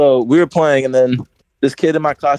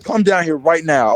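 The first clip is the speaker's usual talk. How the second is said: imitated stern order, not yelled; mock teacher's firm command; 3 semitones higher than usual. Teacher calling a kid down, imitated as stern. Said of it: "he was, like, saying it really stern".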